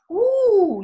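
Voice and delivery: loud, high angry huff before a fight. Shown as a demonstration. Teacher gearing up for a fight, loud angry huff. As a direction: puff up for a brawl. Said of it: "imaginez, là, je vais".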